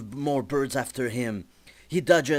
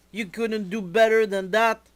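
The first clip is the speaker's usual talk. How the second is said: higher, louder, indignant complaint; outraged; 9 semitones higher, 6 dB louder than usual. Acted. Jazz complains to E-Man, high and indignant. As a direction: throw the blame at him, pitch up. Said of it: "Jazz is very upset".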